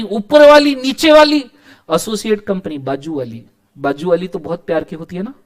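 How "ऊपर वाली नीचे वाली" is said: lively high callout. Shown as a demonstration. Teacher lists options excitedly.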